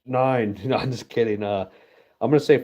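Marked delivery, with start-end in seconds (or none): 0.0-0.6 drawn-out, slow guess like a game show contestant. Pretend. Joking to viewers, slow mock Price is Right guess. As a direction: stretch out the number like on a quiz show. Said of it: "I'll do the Price is Right".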